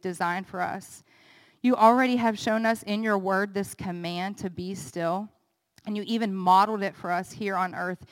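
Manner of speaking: low, earnest prayer voice; closing prayer. Acted. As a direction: pray over the congregation, steady and sincere.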